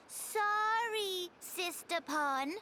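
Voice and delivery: drawn-out model apology; coached apology. Shown as a demonstration. Little creature prompting quarrelling sisters to apologize, coaxing. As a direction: show them slowly how to apologize.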